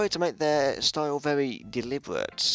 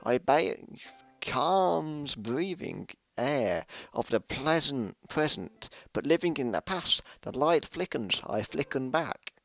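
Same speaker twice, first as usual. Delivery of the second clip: poem reading. Acted. Yuri reading her ghost poem to the club, poetic. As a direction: read it like a poem, savouring each image.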